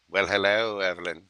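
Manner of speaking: lightly voiced, menacing courtesy; Hannibal Lecter. As Hannibal Lecter greeting the client Evelyn, a light creepy hint. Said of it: "I feel like that".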